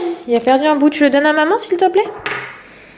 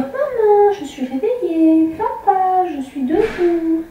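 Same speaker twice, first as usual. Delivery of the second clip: voicing the baby; 5 semitones higher, much slower than usual. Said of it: "Il faut juste dire".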